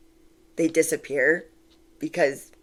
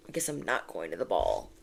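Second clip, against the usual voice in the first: mock defeated Cinderella; 11 semitones lower, 9 dB quieter than usual. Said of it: "we're just like".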